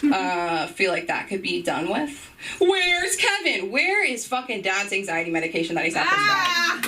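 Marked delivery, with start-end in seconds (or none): 2.6-6.9 frantic panic. Retold or imitated. Frantic family at airport.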